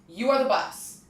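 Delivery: New Jersey accent, casual. Real, not acted. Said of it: "your Jersey accent was".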